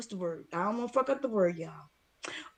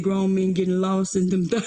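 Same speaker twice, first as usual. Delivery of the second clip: laughing; 4 semitones lower, 5 dB louder than usual. Retold or imitated. Retelling a funny comment.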